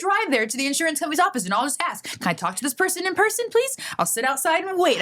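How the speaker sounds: rushing through the idea, imitated; mock eager plan. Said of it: "She's like".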